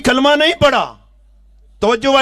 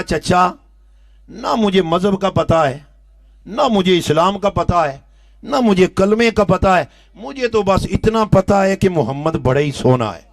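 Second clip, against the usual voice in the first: tender reply; 3 semitones lower than usual. Acted. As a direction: answer gently, full of love. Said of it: "بڑا پیارا جواب دیا".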